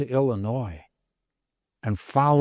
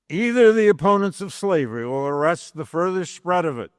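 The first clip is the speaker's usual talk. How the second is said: formal oratory reading. Acted. Lecturer reading Lincoln's speech to class, measured oratory. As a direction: read it as Lincoln addressing a convention. Reads the House Divided speech.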